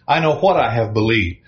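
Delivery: "what" stressed with a falling tune; "what" given the falling emphasis. Shown as a demonstration. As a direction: lean on "what" as the wrong focus. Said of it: "where we put the emphasis".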